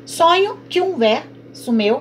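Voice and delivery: "sonho que um" slow, que and um merged into one beat; scanned reading. Shown as a demonstration. Teacher showing students how syllables merge, slowly. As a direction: glide the vowels together slowly. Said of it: "Por exemplo".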